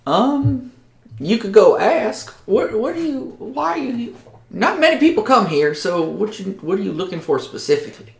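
high backwoods voice, stumbling over questions; a wary yokel pressing the strangers; swamp local, suspicious. Acted.

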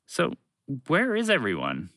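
mildly sceptical query; doubtful. Acted. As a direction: ask with a touch of doubt. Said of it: "Fred asked doubtfully".

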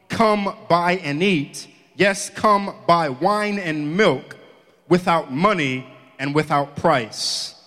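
slow, deliberate reading of the verse; scripture reading. Acted. Preacher reading the verse to the congregation, slow. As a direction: let each phrase land slowly.

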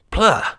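sharp high spitting sound; disgusted spit. A narrator's reading. Thief spitting out bland food, disgusted. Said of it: "he spat it out in disgust".

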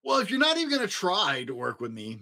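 a touch of a sulky whine; whining. Acted. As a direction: complain like a let-down monster. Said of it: "Mac whined".

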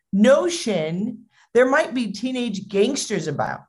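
lightly acted motherly worry; worried mom. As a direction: imitate a fretting mom refusing. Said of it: "really worried".

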